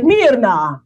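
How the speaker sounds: Italian mimicry, high and drawn out; mock Italian office guy. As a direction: ham up an effusive Italian man. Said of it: "he's like".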